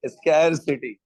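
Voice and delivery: स्कैरसिटी with a relished "skair"; pronounced with feeling. Shown as a demonstration. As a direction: give the "scare" in स्कैरसिटी real feeling. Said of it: "feeling आनी चाहिए".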